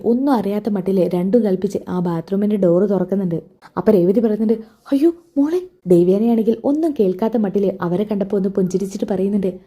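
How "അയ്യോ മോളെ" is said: sudden high yelp of fake alarm; startled cry. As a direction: jump in pitch as if caught. Mother startled as door opens. (ഞെട്ടി ഉയർന്ന ശബ്ദത്തിൽ)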